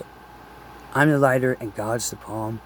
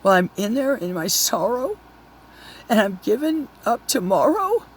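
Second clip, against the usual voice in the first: angry Jesus; 6 semitones higher than usual. Retold or imitated. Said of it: "He got so angry at them".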